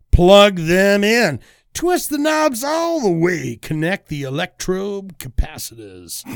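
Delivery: punchy, drawn-out announcer delivery; hype show intro. Pretend. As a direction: fire up the crowd with each command.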